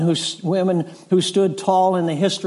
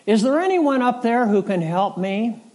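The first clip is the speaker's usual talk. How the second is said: hiker crying out for help; 6 semitones higher than usual. Retold or imitated. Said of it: "and he cried out".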